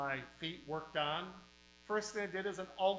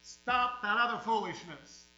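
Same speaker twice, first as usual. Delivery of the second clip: firm rebuke; 5 semitones higher, 8 dB louder than usual. Retold or imitated. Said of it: "Brother Webb will say".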